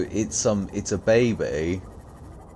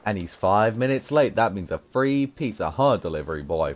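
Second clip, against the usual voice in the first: put-on Italian accent; 4 semitones higher than usual. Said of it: "talking about it in an Italian accent".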